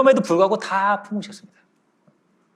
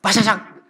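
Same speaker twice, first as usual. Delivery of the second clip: quick vocal smash noise; imitated shattering crash; 3 semitones higher, slower than usual. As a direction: mimic something shattering. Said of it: "챙그랑 깨져버린 거예요".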